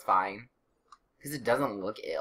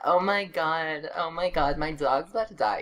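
overdramatic pet owner; 5 semitones higher, 3 dB louder than usual. Retold or imitated. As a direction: imitate a fretting, overdramatic dog owner. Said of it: "You're overdramatic".

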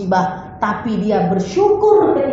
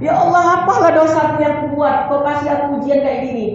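a hint of a grieving believer's protest; complaining prayer; 2 semitones higher than usual. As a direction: wail at God over the trial.

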